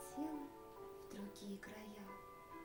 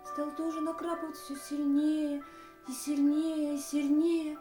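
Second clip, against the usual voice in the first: narration swelling louder and higher; building intensity; 4 semitones higher, 6 dB louder than usual. A narrator's reading. Storyteller describing rain falling harder and harder, building intensity. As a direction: build steadily with each repeat.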